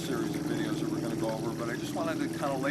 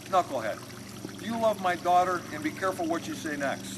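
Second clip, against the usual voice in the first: warning father; 4 semitones higher, 4 dB louder than usual. Retold or imitated. Father warns the boyfriend.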